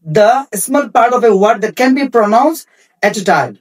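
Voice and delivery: very slow, each word separated; slow dictation. Shown as a demonstration. Teacher dictating the meaning of syllable to students, very slow. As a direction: read it out slowly so they can write it. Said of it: "teacher dictating a definition".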